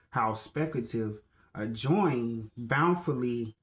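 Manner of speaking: measured declaiming of a written teaching; formal recitation. Acted. Speaker reciting mindset principles to listeners, measured declaiming. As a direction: recite it deliberately, phrase by phrase.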